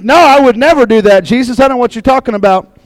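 brash, dismissive insistence; a hint of cocky Peter waving it away; mock confident. Peter brushing off Jesus's prediction, lightly cocky. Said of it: "he becomes Mister Confident".

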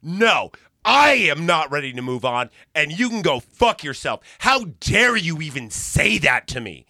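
heated, emphatic and affronted; indignant retold refusal. Refusing to move on in a retold phone fight, indignant. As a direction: push back hard on every key word.

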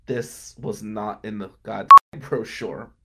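slow, amused grumble through a laugh; laughing inner thought. Retold or imitated. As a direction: laugh at your own disbelief. Thinking to myself in basement.

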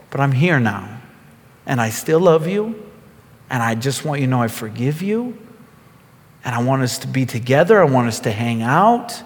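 loving reassurance. Acted. Returning to a friend who betrayed you, lovingly forgiving. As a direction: gently reassure someone who let you down. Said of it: "coming right back to you with love".

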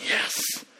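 hushed, hissed mini-celebration; whispered triumph. Retold or imitated. Boy after his cousin walked off, gleeful retold whisper. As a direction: whisper it like a secret victory.

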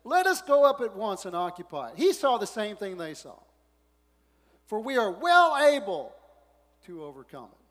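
rally the crowd with certainty; bold declaration. Retold or imitated. Caleb urging the people to take the land, bold. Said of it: "Caleb quieted the people".

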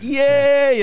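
high, loud whoop; mock crowd cheer. Audience answering the comic's praise, mock cheering. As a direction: cheer like an easily flattered crowd.

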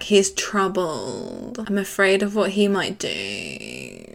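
slow, mock-grave worried tone. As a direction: draw it out like a fake concerned friend. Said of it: "But then she's like".

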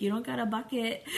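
lightly voiced snippy preteen comeback; a hint of bratty twelve-year-old attitude; sassy twelve-year-old attitude. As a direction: toss it off like a sulky kid talking back. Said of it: "I just see this attitude coming out of her".

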